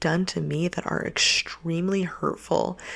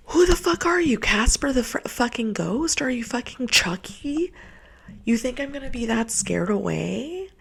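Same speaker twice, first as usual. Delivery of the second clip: furious high-pitched scoffing; outraged rant; 7 semitones higher than usual. Real, not acted. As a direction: blast him with disbelief, pitched way up. Angry rant mocking ex.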